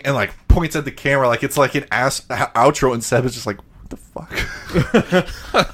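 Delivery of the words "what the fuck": imitating Seb. Seb reacting to awkward interviewer.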